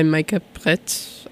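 artist's name in a light French accent; slow the name down with a French lilt. Real, not acted. Host announces the last track, light French accent. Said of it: "I'm giving it a French accent".

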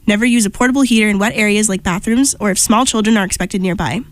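nasal announcer read with blocked nose; congested nasal voice. Real, not acted. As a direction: read the notice with a stuffy nose. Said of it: "with this nasally voice".

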